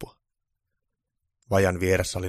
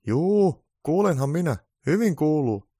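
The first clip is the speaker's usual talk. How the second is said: a higher, lightly voiced radio host; 9 semitones higher, 7 dB louder, slower than usual. Radio host answers Santa's call, in a higher voice. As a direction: answer cheerfully over the airwaves. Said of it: "ääni radiossa vastasi".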